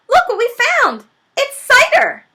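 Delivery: high, loud joyful shout; young fox thrilled at the find; excited cry. Acted. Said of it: "he cried out".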